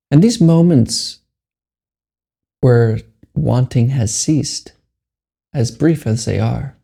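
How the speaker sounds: measured meditation guide with long pauses; guided meditation. Acted. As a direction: leave long silences between short, unhurried phrases.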